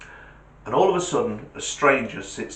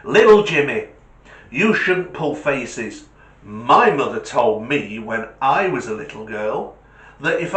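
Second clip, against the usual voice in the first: scolding woman; 5 dB louder than usual. Acted. Woman scolds little Jimmy.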